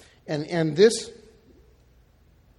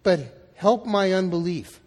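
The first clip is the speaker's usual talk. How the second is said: loud, higher-pitched outcry; crying out; 3 semitones higher, 6 dB louder than usual. Acted. Desperate father pleading with Jesus for his son, crying out. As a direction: cry it out with force, stressing the plea. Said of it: "the boy's father cries out".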